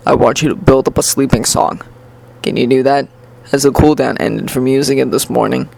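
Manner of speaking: somewhat low-pitched, composed mentor; lightly voiced stern teacher. Teacher asking his student for a sleeping song, lightly voiced low mentor.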